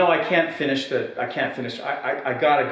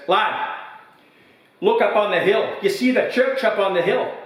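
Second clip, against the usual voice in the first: put-on old pub regular's voice pitched high, louder and proud; proud old man; 7 semitones higher, 3 dB louder than usual. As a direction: brag like a weathered old villager.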